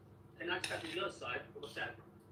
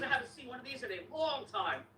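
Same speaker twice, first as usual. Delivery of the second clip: amazed repairman; 7 semitones higher than usual. Retold or imitated. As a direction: retell it in mock wonder. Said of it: "The way he said it was so funny".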